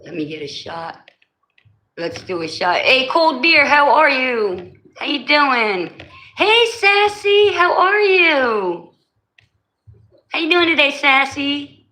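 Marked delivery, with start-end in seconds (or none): 2.8-11.9 high, slow sing-song pet talk; cooing at cats. Real, not acted. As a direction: coo sweetly at the cats like babies. Greeting the street cats.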